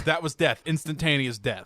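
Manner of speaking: mock deadpan. Friend retelling a scene, mock deadpan death. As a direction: announce death with mock gravity. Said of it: "He goes".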